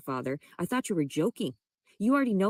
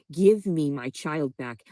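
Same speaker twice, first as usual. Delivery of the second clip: demanding; 5 dB louder, much slower than usual. Real, not acted. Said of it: "aggressive she's saying this".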